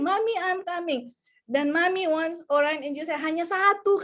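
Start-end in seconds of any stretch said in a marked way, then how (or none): 0.0-1.1 put-on high, eager little-child voice; child's reply. Orion answers Mami's call, high eager child voice. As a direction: answer like an obedient small kid. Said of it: "Mereka harus di practice".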